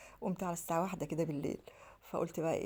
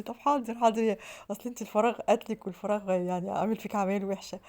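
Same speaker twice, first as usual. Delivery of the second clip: mocking husband; 3 semitones higher, 6 dB louder than usual. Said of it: "عمال يتريق عليا".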